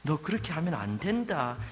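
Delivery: tender, unhurried scolding; gentle rebuke. Acted. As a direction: correct a child lovingly. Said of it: "아주 부드러운 타이르심으로".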